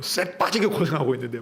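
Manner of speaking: Jeolla-flavoured complaint about toil; Jeolla dialect. Acted. Elder son complains of hard toil, in Jeolla dialect. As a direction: grumble it as a Jeolla local would. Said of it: "전라도 말로".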